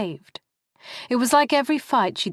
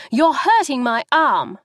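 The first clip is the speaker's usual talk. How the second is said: louder, higher cry of pain; pained outcry; 6 semitones higher, 6 dB louder than usual. Acted. Wife crying out as husband grips her arm, loud pained shout. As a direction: yell out at the grip.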